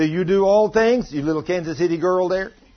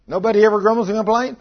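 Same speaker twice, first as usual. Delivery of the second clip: mock disbelief; 4 semitones higher, faster than usual. Shown as a demonstration. Preacher teasing his congregation, in mock disbelief. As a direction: ask "Nobody ever grumbles and complains?" in teasing disbelief.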